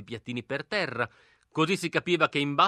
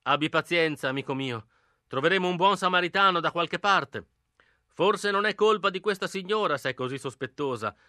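staged shout. Acted. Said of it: "Soltanto io gridai".

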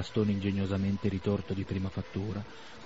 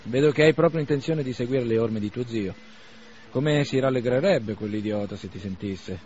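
a touch of scorn, a bit louder; lightly voiced Bazarov, mocking; 2 semitones higher, 5 dB louder than usual. Bazarov mocking Arkady's uncle, mild scorn. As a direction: needle him about his uncle.

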